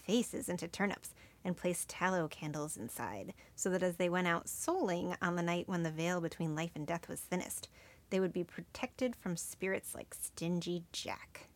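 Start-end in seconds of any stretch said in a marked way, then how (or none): 5.8-11.5 hushed, breathy ghost-story hush; spooky whisper. Acted. Podcast host ending the Stingy Jack legend, eerie whisper. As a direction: lower the voice to a secret at the tale's end.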